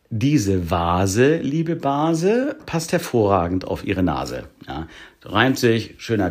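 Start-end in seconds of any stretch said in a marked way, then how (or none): 0.1-4.4 mock-grand rhyming verse, pitch swooping up midway; comic poem recital. Shown as a demonstration. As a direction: declaim the silly rhyme. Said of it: "was ich auch gut rezitieren kann".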